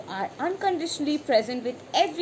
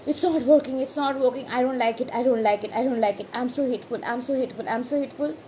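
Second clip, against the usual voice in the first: imitating a fretful reader, a bit raised and pleading; mock desperate anxiety; faster than usual. Desperate reader panicking over bad tarot cards, mock anxious. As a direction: play the anxious querent spiralling, half-mocking. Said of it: "if you're desperate and anxious and are like".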